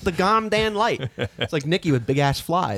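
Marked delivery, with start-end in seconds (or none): 0.0-1.1 slow, laughing echo of the swear; retelling the punchline through laughter; laughing repeat. Retold or imitated. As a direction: say it again slowly while laughing. Repeating the kid's line, laughing.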